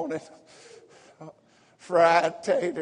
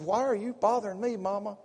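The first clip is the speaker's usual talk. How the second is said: voicing Jesus; 5 semitones higher than usual. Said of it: "And Jesus said".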